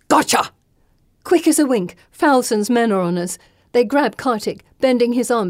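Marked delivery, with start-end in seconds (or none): 0.1-0.5 higher-pitched, sudden exclamation; triumphant pounce. A narrator's reading. Pursuer grabbing the fugitives, triumphant. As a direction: pounce on the word.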